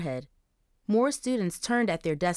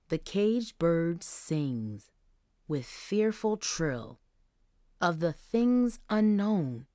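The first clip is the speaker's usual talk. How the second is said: booming poem recital; slower than usual. Acted. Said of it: "Mister Collins boomed out a stanza".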